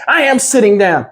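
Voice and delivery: imitating a man whining like a small child; lightly voiced childish protest; childlike whine. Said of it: "He sounded like a child".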